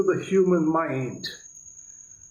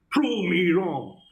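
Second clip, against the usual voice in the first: know-it-all tone; slower than usual. Retold or imitated. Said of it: "Mister Know-All".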